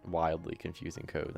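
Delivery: normal talking voice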